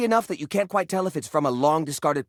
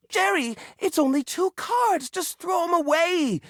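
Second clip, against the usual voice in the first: mock average viewer; 11 semitones higher than usual. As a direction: play a dismissive outsider telling him to toss it. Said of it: "the average viewer might say".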